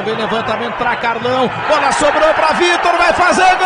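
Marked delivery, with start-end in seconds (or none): 1.7-3.7 explosive goal commentary. Real, not acted. Goal chance build-up.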